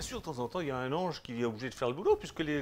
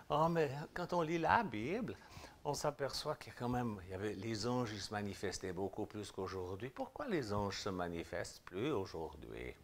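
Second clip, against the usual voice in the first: put-on lightly done Swiss French accent, softer and lower; 3 semitones lower, 3 dB quieter than usual. Preacher mimicking a Christian asking about angels in a Swiss accent. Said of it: "je prends mon accent suisse".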